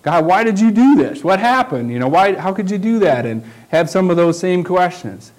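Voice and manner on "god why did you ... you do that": mild mock anger at God; angry prayer. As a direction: demand an answer from God, upset. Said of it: "I go with anger in my prayer voice".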